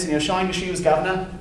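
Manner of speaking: lightly put-on working class London accent; Cockney accent. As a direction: toss off a chirpy London chimney-sweep line. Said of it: "That's a Cockney accent".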